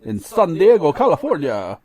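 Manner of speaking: bright ad-read with Spanish names; Spanish announcer voice. Acted. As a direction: sell it like a radio announcer. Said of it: "I'm doing all my Spanish announcer voice".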